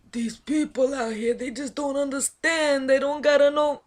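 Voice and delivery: put-on exasperated Italian accent, pitch climbing; Italian-style accent. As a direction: complain like a movie Italian. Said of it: "make it sound Italian".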